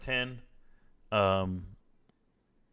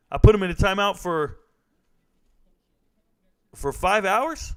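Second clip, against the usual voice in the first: incredulous; 7 semitones higher, 6 dB louder than usual. Real, not acted. Realizes how long the timeout was.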